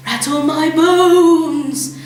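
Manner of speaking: slow, drawn-out spooky croak; haunt the room as a bird; spooky parrot voice. A narrator's reading. Parrot doing its spooky voice for Matilda, slow and eerie. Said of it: "imitation of a spooky voice".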